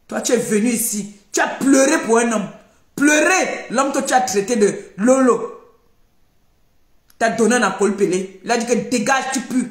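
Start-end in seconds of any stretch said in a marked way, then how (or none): 0.1-2.5 confronting shout. Real, not acted. Confronting the rival. 2.9-5.6 mocking laugh. Real, not acted. Mocking the rival.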